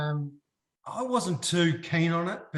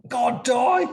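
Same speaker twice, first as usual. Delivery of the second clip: laughing exasperation; 9 semitones higher, 10 dB louder than usual. Retold or imitated.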